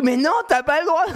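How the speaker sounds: high mock child wail; put-on high-pitched whine; tearful little girl. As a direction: imitate a kid protesting through tears. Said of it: "elle est en pleurs et tout".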